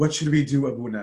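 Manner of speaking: mock-scared, acted frightened voice. Retelling a man asking the elder Abuna what to do during a fire scare; mock-scared question. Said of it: "Like in this scare".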